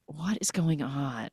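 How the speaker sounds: slow, hushed disbelief; shocked whisper. Retold or imitated. Alia sees the maid killing a snake, shocked whisper. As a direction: whisper it slowly, imitating someone creeped out.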